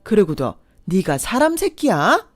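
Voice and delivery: loud, high furious tirade; furious scolding. Acted. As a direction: tear into him without stopping. Mother berates the ex.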